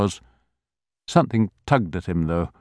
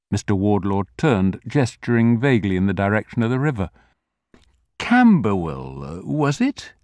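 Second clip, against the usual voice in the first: put-on vague old grocer; 5 semitones higher than usual. A narrator's reading.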